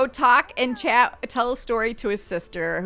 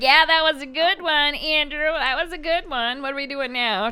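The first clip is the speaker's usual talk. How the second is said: Lettice's voice; 5 semitones higher than usual. Pretend. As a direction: play her gushing politely at his story. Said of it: "She's like".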